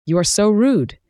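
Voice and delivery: an offended outburst that climbs; offended young executive snapping at a rude engineer, voice rising; indignant exclamation. A narrator's reading. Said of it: "Yuiko exclaimed, her voice escalating".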